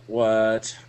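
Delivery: mildly irritated retold reply; aggravated. Replying to a nagging drunk friend, aggravated. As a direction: answer as if worn down by pestering. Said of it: "I'm already aggravated".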